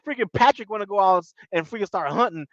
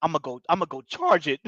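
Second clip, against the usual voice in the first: much softer, hushed eager voice; whisper-ish, sneaking up on the pig; hushed mock bravado; 3 semitones lower, 6 dB quieter than usual. Patrick telling Jermaine he'll charge the pig, hushed. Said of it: "Patrick like".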